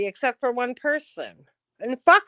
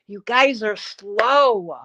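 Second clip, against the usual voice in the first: very slow, louder put-down; scornful; 5 dB louder, much slower than usual. Real, not acted. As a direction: drag each word out. Scolding commenters.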